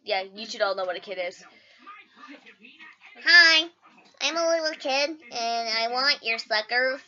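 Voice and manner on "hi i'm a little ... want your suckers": put-on child voice. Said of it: "my impression of a kid".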